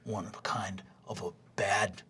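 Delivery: whispered low taunt; a bully's low whispered jab; sneering whisper. Acted. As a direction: hiss the insult under the breath. Rog sneers at Fabian.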